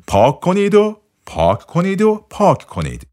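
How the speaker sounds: preacher-like repetition; emphatic mantra. Acted. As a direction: drive the mantra home with rising fervour. Emphatic closing of mantra list.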